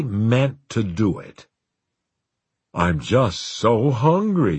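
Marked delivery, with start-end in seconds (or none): 2.7-4.6 whiny, teasing, drawn out; petulant and teasing. Acted. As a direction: tease like a spoiled child. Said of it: "both petulant and teasing".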